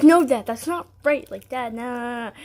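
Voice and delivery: telling dad off over the frosting; bossy correction. Retold or imitated. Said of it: "I'd be like".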